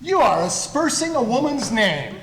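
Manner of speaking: mildly indignant gentleman; indignant challenge. Acted. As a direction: stand up for her honour. Freddie confronts the bloke.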